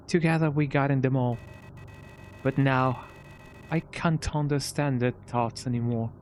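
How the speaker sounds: playfully faked British accent for a game character. Gamer reading a character's lines for fun, put-on British accent. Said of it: "I'm gonna do a British accent".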